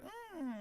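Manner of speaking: high, soft drawn-out "mmm"; a hushed high hum of pleasure; mock moan. Teasing his guest about a shaved cellmate, mock moan. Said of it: "then you'd be like".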